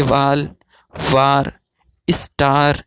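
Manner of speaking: वाल, वार, स्टार said with a long open a; pronunciation demo. Shown as a demonstration. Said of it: "इसका तलफ़ुज़ किस तरीके से किया जाएगा".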